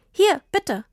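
high eager breathy offer; handing over a present. A narrator's reading. Tini hands Papa the bike, eager.

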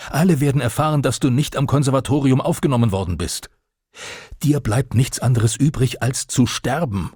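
höher und lauter, drohend geschrien. Acted. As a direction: schrei den Sohn verzweifelt an. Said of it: "Sein Geschrei wurde noch lauter". (Vater schreit den gescheiterten Sohn an, höher und lauter)

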